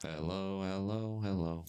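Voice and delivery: glitchy robotic mic sound. Real, not acted. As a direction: voice coming out like a robot. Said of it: "It's on Snapchat".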